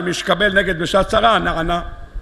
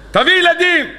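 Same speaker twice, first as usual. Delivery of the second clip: much higher, acted outburst; insistent demand; 10 semitones higher than usual. Rachel demands children from Jacob, acted as an insistent outburst. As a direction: demand it with a sharp jump in pitch.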